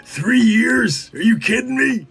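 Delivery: quirky halting delivery; deadpan odd phrasing; a hint of Walken's halting cadence; Christopher Walken impression. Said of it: "Christopher Walken".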